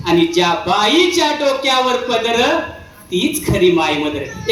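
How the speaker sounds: slow, measured declaiming; verse recitation. Acted. Preaching on old culture to the audience, slow verse recitation. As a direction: recite the rhyme slowly, line by line.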